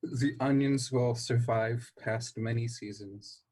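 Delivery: grand mock declamation; weighty theatrical pronouncement; Shakespearean. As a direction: proclaim it like stage verse.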